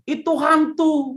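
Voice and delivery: high, slow cry of ghost fear; mock ghost scare. Preacher mimics disciples screaming ghost.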